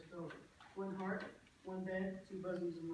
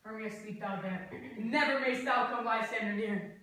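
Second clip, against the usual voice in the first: louder and slow on never mayst thou; loud scornful vow; 9 dB louder than usual. Acted. Lysander loudly renouncing the sleeping Hermia, scornful vow. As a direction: cast her off with a loud oath.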